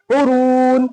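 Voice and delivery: "उरून" with short "उ", long held "रून"; long raa. Shown as a demonstration. Teacher showing the raa stretch, long raa. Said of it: "रा को खींचेंगे".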